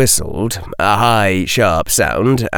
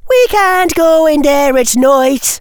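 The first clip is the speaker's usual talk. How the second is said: put-on prissy young girl; 5 dB louder than usual. A narrator's reading. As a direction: whine like a spoiled schoolgirl. Girl student afraid.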